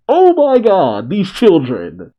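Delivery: high, loud, drawn-out disbelief; real high-pitched outburst at a shocking sight; aghast reaction. Real, not acted. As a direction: exclaim it in exaggerated dismay, slowly. Host reacting aghast to manga characters.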